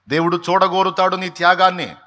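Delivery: rising sermon fervour; forceful preaching. Acted. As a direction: drive it home to the congregation.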